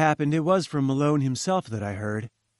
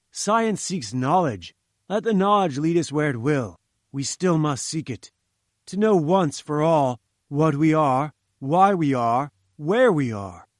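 lofty orating professor; 2 semitones higher, 4 dB louder than usual. Acted. Challenger lectures Jones on science, grand oration. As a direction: sweep him up in your grand vision.

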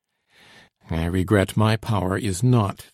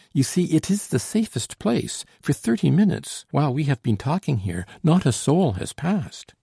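high, insistent reassurance; animated, high-pitched insistence; exclaiming; 7 semitones higher than usual. A narrator's reading. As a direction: argue it eagerly in a lifted voice. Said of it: "she exclaimed".

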